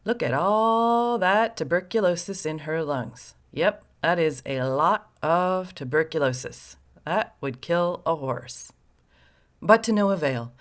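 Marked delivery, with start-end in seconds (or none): 0.0-8.7 mock muttering doctor. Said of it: "muttering something about".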